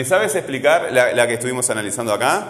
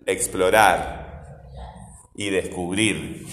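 very slow, drawn-out "explorar", then "descubrir"; stressed final syllables; 5 semitones lower, much slower than usual. Shown as a demonstration. Teacher has pupils listen for tonic syllables, drawing out "explorar" and "descubrir". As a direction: stretch "rar" in "explorar" and "brir" in "descubrir", lower. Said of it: "Hay que escuchar el sonido".

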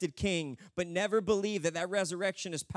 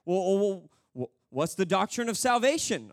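louder, stammering gatekeeper; questioning angel; 6 dB louder than usual. Acted. Angel quizzing the thief on doctrine, insistent. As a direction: press him like a flustered examiner. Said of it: "one of the angels is like".

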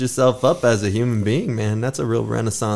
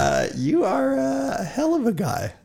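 mock emotional shout; 12 semitones higher than usual. Host's emotional mock praise.

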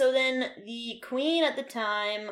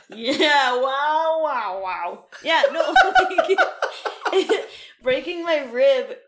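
loud laughing fit; 5 semitones higher, 10 dB louder, slower than usual. Real, not acted. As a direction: laugh hard through it. Laughing hard at joke.

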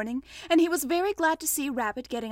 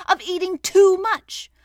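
loud, slow, higher rebuke; stern; 7 semitones higher, 10 dB louder than usual. A narrator's reading. Rabbit blaming Pooh's appetite, stern. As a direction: scold sternly and deliberately. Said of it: "said Rabbit sternly".

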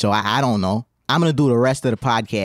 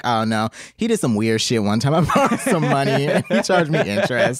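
laughing retelling. Pretend. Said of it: "I'd just be like".

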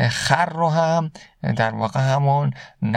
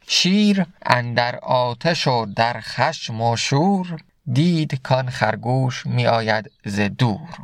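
slow, measured reading of Rumi's verse; slow verse recitation; slower than usual. Acted. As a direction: recite the couplet slowly, letting each word land. Recites Masnavi verse slowly. (شعرخوانی آرام و شمرده)

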